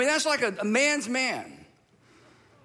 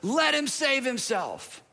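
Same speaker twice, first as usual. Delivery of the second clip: drawn-out mocking taunt, higher at the start; sneering; 4 semitones higher, slower than usual. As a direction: sneer it like a scornful ruler. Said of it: "the rulers sneered at him".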